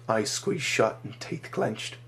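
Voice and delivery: ordinary delivery, nothing marked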